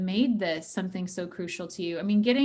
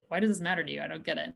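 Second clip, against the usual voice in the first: a lower, softer, dismissive "Why does this matter to you? I don't get it."; 4 semitones lower, 5 dB quieter, much faster than usual. Shown as a demonstration. Therapist demoing a why question that puts a partner on the defensive, dismissive. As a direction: let it sound like a brush-off. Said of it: "sometimes it's the tone".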